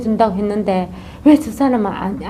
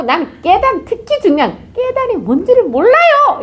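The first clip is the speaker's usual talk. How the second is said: puzzled stranger; 11 semitones higher, 3 dB louder than usual. Acted. Stranger admits not knowing.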